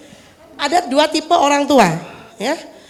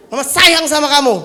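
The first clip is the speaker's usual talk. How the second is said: mother declaring love; 2 semitones higher, 5 dB louder than usual. Acted. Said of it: "pura-pura jadi anak saya".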